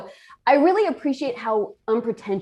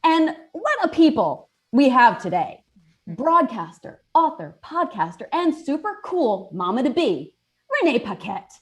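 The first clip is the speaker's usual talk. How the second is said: bright upbeat show opener; show host intro; 3 semitones higher than usual. Acted. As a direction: welcome the viewers like a host. Host opens cereal show.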